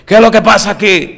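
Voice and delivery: high, loud upset little voice; the baby catching the upset. Pretend. Unborn baby feeling the mother's upset, high loud voice.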